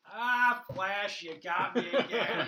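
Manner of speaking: sheepish trickster busted again, laughing; cheerful caught villain. Retold or imitated. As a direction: chuckle it out like a villain happy to be caught. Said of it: "He goes".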